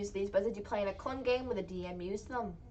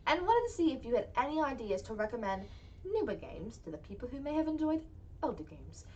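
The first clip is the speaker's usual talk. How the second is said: mock British accent. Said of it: "Was my accent good at least".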